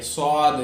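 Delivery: heavy, rounded صاد; long emphatic "swaad" for صاد; saad sound. Shown as a demonstration. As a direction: say صاد with a full-mouthed s. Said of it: "صاد کی طرح".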